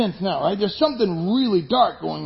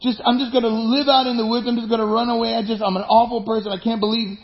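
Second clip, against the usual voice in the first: put-on whiny self-pitying kid; 4 semitones higher than usual. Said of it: "your kid came in and said".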